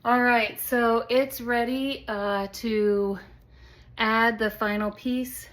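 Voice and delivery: slightly out of breath; breathless after hard work. Real, not acted. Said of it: "I'm a little bit out of breath".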